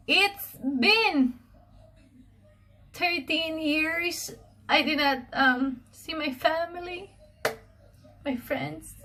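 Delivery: fighting back real tears; choked up and crying; tearful. Real, not acted. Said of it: "I've been very emotional".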